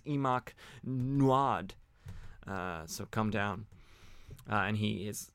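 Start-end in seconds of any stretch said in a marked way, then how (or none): 0.0-1.7 very slow, drawn-out spell syllables; backwards spell word. Retold or imitated. Zatara casting his backwards spell, slow and incanted. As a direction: intone the reversed magic word slowly. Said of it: "but he says".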